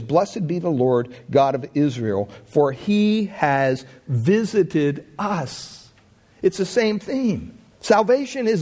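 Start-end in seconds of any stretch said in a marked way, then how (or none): 0.0-5.9 solemn prophecy. Acted. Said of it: "he prophesies and he says".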